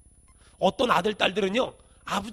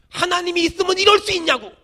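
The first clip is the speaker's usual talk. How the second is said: complaining; 5 semitones higher, 3 dB louder than usual. Retold or imitated. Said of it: "뭐라 그러는지 아세요?".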